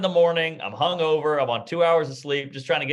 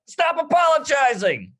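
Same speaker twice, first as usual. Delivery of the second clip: high, drawn-out mock plea; exasperated; 11 semitones higher than usual. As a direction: imitate a fed-up outburst, pitched way up. Fed up with driver's apologies.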